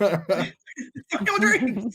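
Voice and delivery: bitter snarl. Acted. Comedian's bitter tirade.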